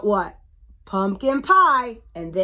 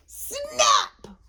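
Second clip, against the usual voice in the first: very high sound-effect burst; sharp storybook climax; sudden snap. A narrator's reading. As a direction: pop the word out after suspense. Pumpkin breaks off the vine.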